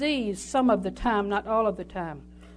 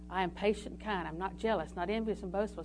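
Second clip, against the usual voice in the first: softly affirming; 5 semitones lower, 10 dB quieter than usual. Shown as a demonstration. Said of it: "See, I'm saying it".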